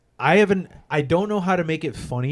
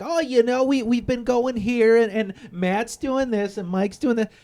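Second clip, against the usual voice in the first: mock Italian storyteller; 10 semitones higher than usual. Italian side telling story, high voice.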